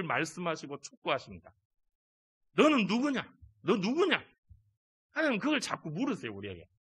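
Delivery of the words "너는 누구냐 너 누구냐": God asking. Acted. Preacher voicing God asking.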